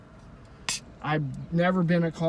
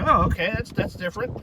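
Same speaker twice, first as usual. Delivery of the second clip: "that's different" half whispered, higher; raised, taken aback, then breathy; mild surprise; 6 semitones higher than usual. Retold or imitated. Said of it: "I, I said".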